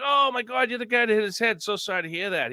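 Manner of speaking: high mock-surprised "oh my God" fading into sympathy; retold surprise. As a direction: act out your own startled reaction, then soften. Retells his surprised reaction to Bruce.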